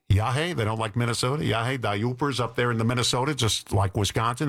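folksy Yooper-style Minnesota impression; Minnesota accent. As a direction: put on an Upper Midwest Minnesota accent. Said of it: "Minnesota accent".

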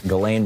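Ghislaine pronounced "guh-LANE"; hard G, silent S in Ghislaine. Shown as a demonstration. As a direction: say Ghislaine without sounding the S. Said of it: "I think it's pronounced Ghislaine".

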